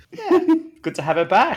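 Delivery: high laughing voice; amused host laughing. Real, not acted. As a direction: laugh through the line. Laughing about guest.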